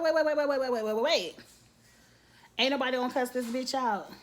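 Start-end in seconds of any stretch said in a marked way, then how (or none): 0.0-1.3 stunned interruption. Retold or imitated. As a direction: cut everyone off in disbelief. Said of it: "And I'm like".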